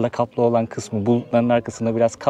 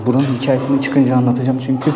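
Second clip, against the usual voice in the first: struggling for breath; breathless, air running out; wheezy voice; 3 dB louder than usual. Real, not acted. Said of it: "nefes alamıyorum doğru düzgün".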